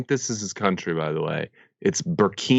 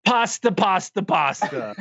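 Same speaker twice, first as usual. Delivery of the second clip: hammed-up French accent, starting high; 8 semitones higher, slower than usual. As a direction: imitate a thick French accent. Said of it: "super deep French accent".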